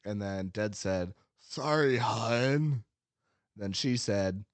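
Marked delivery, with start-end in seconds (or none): 1.4-2.8 sweaty incel voice. Retold or imitated. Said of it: "sweaty incel voice".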